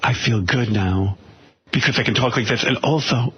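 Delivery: slow, lightly voiced effeminate plea; a hint of a shy, longing Artie; mock effeminate Artie. Host imitates Artie asking George for love, slow and mock tender. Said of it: "He goes".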